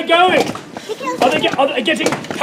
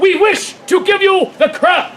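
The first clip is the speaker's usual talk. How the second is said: proclaiming; 5 semitones higher than usual. Acted. Acted proclamation.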